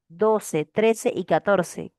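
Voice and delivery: trece y catorce said slowly, word by word; slow dictation. Shown as a demonstration. Teacher assigning homework, slow clear dictation. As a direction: dictate it slowly for the class to note. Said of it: "teacher repeats question numbers".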